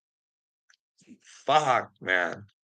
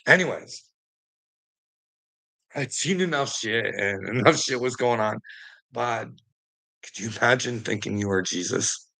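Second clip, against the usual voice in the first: ordinary delivery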